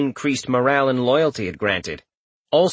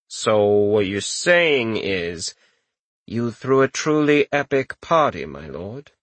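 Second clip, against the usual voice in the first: dry chamberlain voice; 3 semitones lower, slower than usual. Acted. Chamberlain questions lord.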